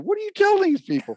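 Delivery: high, strained mock yell at the casting director; a hammed-up outraged cry; mock screaming. The sabotaged actor yells at the casting director, half-mock. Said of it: "they go in screaming".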